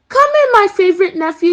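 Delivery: mischievous. Acted. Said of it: "with a mischievous smile".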